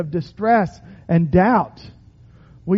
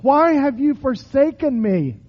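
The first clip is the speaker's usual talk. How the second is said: crying out; 5 semitones higher than usual. Acted. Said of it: "cry out".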